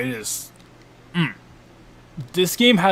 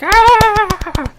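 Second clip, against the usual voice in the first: loud, very high imitation laugh; mock audience laughter; 11 dB louder than usual. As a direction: imitate a crowd cracking up, shrill and loud. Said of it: "they'll clap and they'll laugh".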